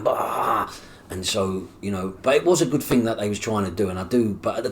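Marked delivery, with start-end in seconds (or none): 0.0-0.7 drawn-out yelled "bah"; imitated head noise. His head as he hears the foster people's plan, yelled noise. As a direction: voice the noise going off inside your head. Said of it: "my head's going".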